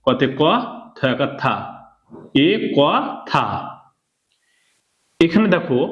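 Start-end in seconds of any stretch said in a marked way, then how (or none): 2.4-3.4 "এ ক থা" with a gap between syllables; teacher's spaced reading of "এ ক থা". Shown as a demonstration. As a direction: sound out "এ", "ক", "থা" one at a time. Teacher sounds out the word.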